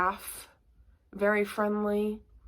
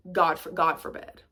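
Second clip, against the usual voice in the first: mock scandalized; 3 semitones lower than usual. Mock horror at orphan.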